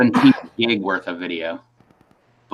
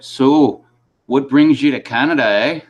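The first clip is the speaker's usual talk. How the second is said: mock-Canadian customs officer, pitched up; Canadian accent; 4 semitones higher, 4 dB louder than usual. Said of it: "first I gotta do the accent".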